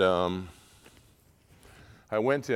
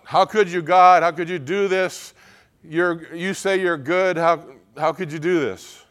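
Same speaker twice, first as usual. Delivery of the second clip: loud, raised cry of protest to God; anguished lament; 8 semitones higher, 9 dB louder than usual. Acted. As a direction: demand an answer, voice raised in acted anguish. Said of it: "what they call lament".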